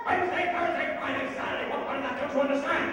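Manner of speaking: loud, high, irritated yelling; exasperated shout. Acted. Grumplebuffin berates the little people, exasperated shouting. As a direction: yell it as if they are idiots. Villain repeats himself, irritated.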